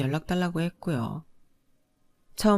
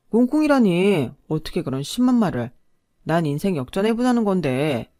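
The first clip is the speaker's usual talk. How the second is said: louder, caught-out protest; flustered husband; 5 dB louder than usual. Acted. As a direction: bluster to cover being exposed. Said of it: "남편은 당황해서 얼굴이 벌개지더니".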